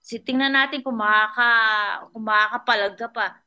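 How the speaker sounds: threatening captain. Retold or imitated. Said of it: "Sabi niya".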